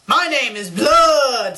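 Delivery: slow, loud monster shout; drawn-out, hammed-up proclamation; monster announcing himself. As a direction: bellow it slowly and grandly. Voices monster introducing himself in story.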